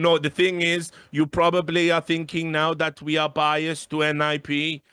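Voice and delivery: stilted mock lecture; hammed-up humourless official; imitating ESL producer. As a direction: explain with laboured, pedantic care. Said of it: "But he kept going".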